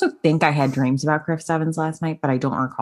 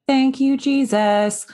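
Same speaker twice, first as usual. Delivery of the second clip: relieved; 10 semitones higher, much slower than usual. Real, not acted. Relieved exclamation.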